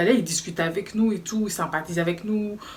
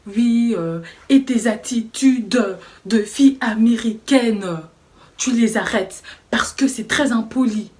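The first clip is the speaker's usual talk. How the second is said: retold manager, slow, louder, mildly haughty; mocking imitation; 3 semitones higher, 6 dB louder, slower than usual. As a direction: lightly play the snooty manager scolding. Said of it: "Ton imitation".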